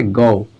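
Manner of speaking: गो said short and low with the British vowel; correct pronunciation. Shown as a demonstration. Teacher to students, modelling the right गो. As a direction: model गो firmly as the right form. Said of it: "लेकिन ये गो है".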